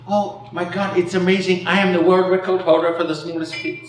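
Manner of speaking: put-on Irish accent. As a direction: play an amazed Irishman telling his news. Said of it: "Sorry, Irish accent".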